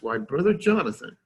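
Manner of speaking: mildly patronizing, pitched a little up; mock-condescending British lion addressing an upstart. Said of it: "in a very condescending way".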